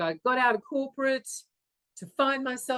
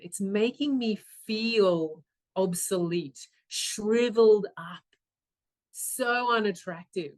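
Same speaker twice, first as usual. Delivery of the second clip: dismayed self-disgust. Retold or imitated. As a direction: let each hurtful word land after a pause. Acts out sinking self-disgust.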